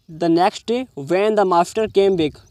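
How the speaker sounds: very slow, word by word, for students; slow reading aloud. Shown as a demonstration. Teacher reading the English line slowly to students. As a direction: spell it out slowly so they follow.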